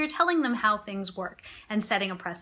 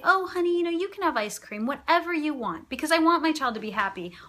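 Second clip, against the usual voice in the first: higher, gushing and indulgent, like a parent who gives in; permissive loving parent; 5 semitones higher than usual. Shown as a demonstration. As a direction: coo sweetly to keep the child happy. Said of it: "If I was gonna be really kind or loving, I might say".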